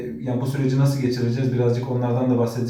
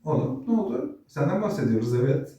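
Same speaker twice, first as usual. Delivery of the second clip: pet talk; 3 semitones higher than usual. Real, not acted. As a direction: coo at the dog. Talking to the dog. (köpeğe sevecen ince ses)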